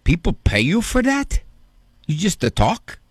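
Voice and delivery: Italian grandfather. Retold or imitated. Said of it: "in his broken Italian accent".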